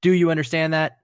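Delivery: a hint of a barking drill sergeant. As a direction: play the drill instructor, commanding. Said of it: "Full Metal Jacket recruit".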